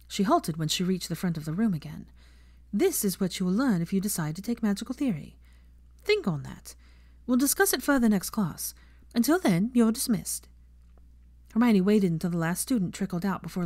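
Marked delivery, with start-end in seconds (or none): 2.7-10.5 a touch higher, brisk classroom address; a professor ending her lesson, lightly voiced teacher.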